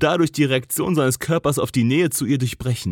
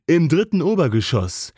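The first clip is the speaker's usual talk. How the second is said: a touch deeper. Acted. Cole to Jess, standing too close, lower voice. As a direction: voice dropped lower, unhurried. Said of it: "die Stimme eine Spur tiefer als nötig".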